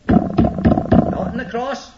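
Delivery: hushed, deliberate repeat for weight; slow whisper. Shown as a demonstration. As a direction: whisper it slowly, drawn out. Repeats phrase, second take slower and whispered.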